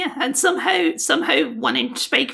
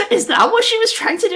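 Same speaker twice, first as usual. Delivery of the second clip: spoken through a laugh, pitched up; laughing question; 8 semitones higher, 5 dB louder than usual. Real, not acted. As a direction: laugh out the disbelief. Mocking awful Scottish accent.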